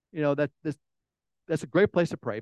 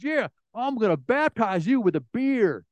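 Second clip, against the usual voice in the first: higher-pitched mock jeer; taunting heckler; 5 semitones higher than usual. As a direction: lightly play a rowdy beer drinker teasing. Heckler threatens pastor with beer.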